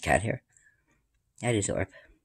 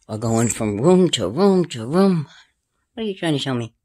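ordinary talk, nothing marked

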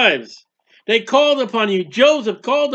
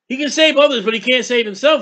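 mocking taunt; 3 semitones higher, faster than usual. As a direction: taunt him from the crowd. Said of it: "is what they were saying".

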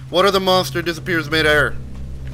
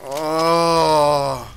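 panicking gamer; 4 semitones higher, much slower than usual. Real, not acted. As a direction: panic as it chases you. Fleeing a monster.

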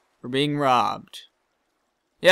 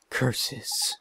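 whispered softer curse under breath; muttered aside; 5 semitones lower, 8 dB quieter than usual. Acted. Peddler curses to himself on getting the pot back, whispered. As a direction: hiss it so nobody hears.

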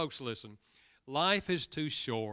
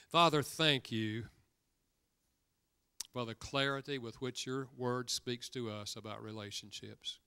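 prayer. Real, not acted. Pastor leads closing prayer.

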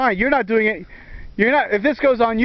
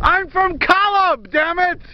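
mock god voice; 8 semitones higher, slower than usual. God persona continues.

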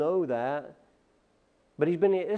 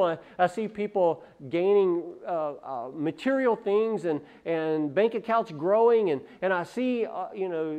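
rising lament; 4 semitones higher than usual. Acted. Preacher voicing self-pitying complaint.

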